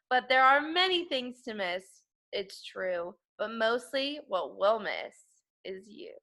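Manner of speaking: slow, sing-song poem reading; poem recital. Acted. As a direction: recite it like a children's rhyme.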